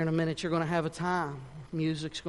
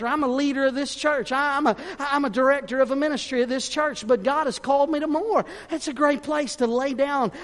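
high, raised preacher's voice, driving on; impassioned preaching; 8 semitones higher, 5 dB louder than usual. Real, not acted. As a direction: preach urgently at full pitch, calling them forward. Preaches at full force.

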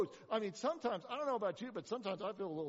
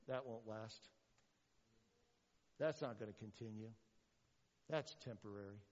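low, soft skeptical remarks, spaced apart; dismissive aside; 9 semitones lower, 6 dB quieter than usual. Acted. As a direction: mutter doubts under your breath. Acts out doubters muttering judgement.

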